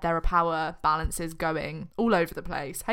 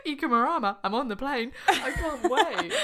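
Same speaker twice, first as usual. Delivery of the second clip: excited; 7 semitones higher than usual. Pretend. Mock excited holiday voice.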